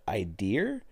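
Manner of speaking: "Idea" with an added r, rising as a question; baffled rising "Idea", r on the end; puzzled echo. Retold or imitated. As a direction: repeat "Idea" as "eye-DEER?". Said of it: "And I went".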